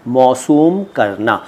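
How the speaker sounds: मौसूम करना said slowly, each sound clear; slow careful word. Shown as a demonstration. Teacher slowly modelling मौसूम करना for learners. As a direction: spell out मौसूम करना syllable by syllable.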